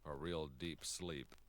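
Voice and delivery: soft, slow hypnotist drone. Pretend. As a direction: lull him under like a stage hypnotist. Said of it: "I'm gonna hypnotize you".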